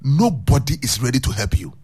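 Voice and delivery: voice of God. Acted. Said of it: "Awurade ka kyerɛ me sɛ".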